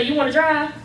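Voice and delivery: loud, high incredulous retelling. Retold or imitated. Daughter retelling her father asking her to drive, loud and incredulous. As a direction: sound amazed he'd ask that. Husband offering her the wheel.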